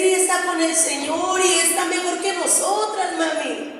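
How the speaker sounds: acted-out pleading comfort; consoling daughter. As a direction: comfort mamá bravely. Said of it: "le empecé a decir".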